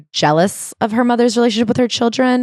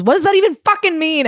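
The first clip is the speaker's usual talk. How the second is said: exasperated outburst; 10 semitones higher than usual. Retold or imitated. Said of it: "And she goes".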